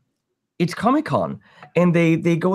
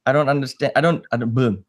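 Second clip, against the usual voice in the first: talking with mouth full; words round a bite of food; faster than usual. Real, not acted. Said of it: "Speaking with the mouth".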